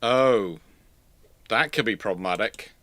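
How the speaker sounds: ordinary delivery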